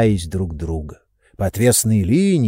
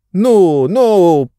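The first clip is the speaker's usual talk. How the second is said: shouting match; 8 semitones higher, 6 dB louder than usual. A narrator's reading. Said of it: "закричали друг на друга".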